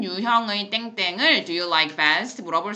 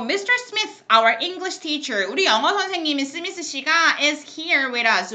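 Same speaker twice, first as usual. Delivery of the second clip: radio host; 5 semitones higher than usual. Acted. Introducing the guest on air.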